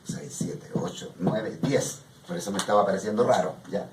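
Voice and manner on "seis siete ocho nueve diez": near-whispered count to herself; quietly counting the syllables aloud; counting under breath. Real, not acted. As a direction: mutter the count softly while checking. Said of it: "A ver, déjame ver".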